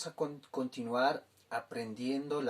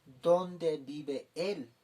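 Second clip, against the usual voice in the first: very slow, clear gloss; teacher glossing slowly; slow translation; much slower than usual. Shown as a demonstration. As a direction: say it slowly for the class. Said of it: "Kaukansa hupaha kami".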